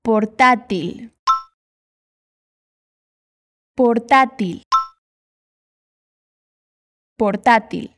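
"portátil" with both t sounds the same hard t; Spanish portátil. Shown as a demonstration. Teacher models for repeating, both t hard.

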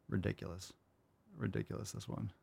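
very soft muttered ridiculous; muttered aside. Real, not acted. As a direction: grumble it under your breath. Muttering at a viewer.

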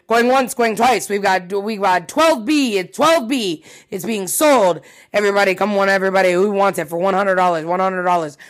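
amateur auctioneer voice. Acted. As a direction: call out bids like a makeshift auctioneer. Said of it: "I don't do a very good auctioneer voice".

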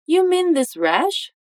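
high, slow rising question; informal question. Shown as a demonstration. Teacher shows James's casual question, high and slow. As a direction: lift the voice high and ask slowly. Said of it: "faz uma pergunta informal".

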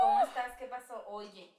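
sweeten it like mom's phone voice. Retold or imitated. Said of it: "te habla suavecito".

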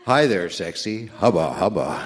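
lightly voiced cartoon flirt, a hint of leer; mock-lecherous pickup line, only lightly put on; sleazy flirt voice. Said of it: "voice saying".

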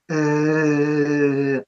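mild mock demonic growl, low; a lightly acted animal-like growl; demonic growl imitated. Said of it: "like a demoniac".

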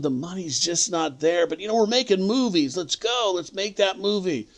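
hammed-up easygoing producer brushing off worries; imitating Charlie.

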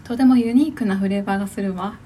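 lightly played posh young lady; a hint of a refined heiress voice; haughty rich girl Japanese. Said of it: "お嬢様で行くんだ".

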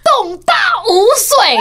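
slow, high, loud cutting retort; husband's comeback, each syllable 洞大无水 drawn out high and loud; slow punchline. Retold or imitated. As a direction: drop the line slowly like a knockout blow.

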